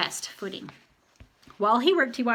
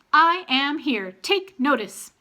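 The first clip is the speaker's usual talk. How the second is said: slow, louder, higher raven voice; raven call; 5 semitones higher, 4 dB louder, slower than usual. A narrator's reading. Blue Sky the raven demanding attention with quirks. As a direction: announce it like a proud raven. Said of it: "ululating quirks".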